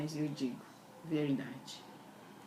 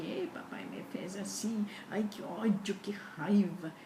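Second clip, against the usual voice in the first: resentful complaint; 2 semitones higher than usual. Retold or imitated. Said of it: "e eu com mágoa tudo do papai".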